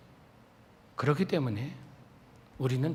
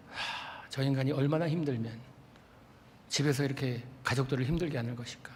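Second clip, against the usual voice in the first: pitying sigh; 3 semitones lower, 7 dB quieter than usual. Shown as a demonstration. Pitying thought over sleeping husband.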